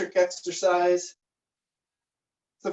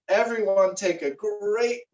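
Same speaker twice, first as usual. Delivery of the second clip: morning radio host; 3 semitones higher than usual. Retold or imitated. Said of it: "Caius has a morning radio show".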